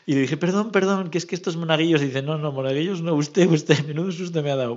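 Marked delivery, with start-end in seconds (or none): 0.4-2.0 flustered apology. Retold or imitated. Retold apology to frightened woman. 2.2-4.8 indignant woman. Retold or imitated. Retold scolding by frightened woman.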